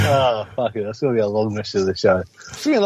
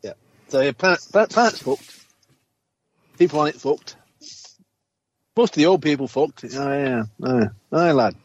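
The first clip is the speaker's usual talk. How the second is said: put-on northern old man accent; 3 semitones higher than usual. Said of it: "when you're talking in that accent".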